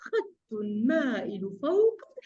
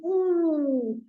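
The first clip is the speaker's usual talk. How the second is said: tag; 2 semitones higher, much slower than usual. Acted. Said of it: "وتقول".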